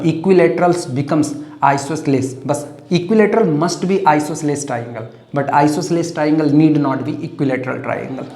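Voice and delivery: slow, deliberate summary; slow dictation. Shown as a demonstration. Teacher dictating the rule, slow and deliberate. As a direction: read the rule slowly for notes. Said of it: "dictating summary".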